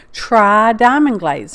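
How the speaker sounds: "try" drawn out and leaned on; stress on try. Real, not acted. Crafter advising viewers on diamond glaze, "try" stressed and stretched. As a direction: hit "try" slowly, then finish the phrase. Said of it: "The reason I say try".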